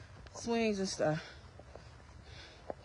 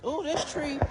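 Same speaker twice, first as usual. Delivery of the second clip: admiring ooh; 4 semitones higher than usual. Real, not acted. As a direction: marvel at the tree like it's a treasure. Showing kids a tree again.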